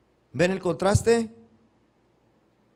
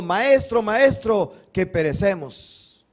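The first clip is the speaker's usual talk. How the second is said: urgent cry; 4 semitones higher, 5 dB louder, slower than usual. Retold or imitated. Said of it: "le despertaron diciendo".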